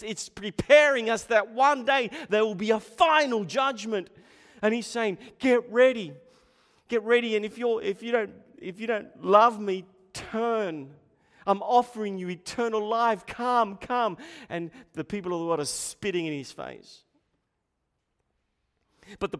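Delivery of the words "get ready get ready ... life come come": urgent appeal. Acted. Voicing the prophet's call.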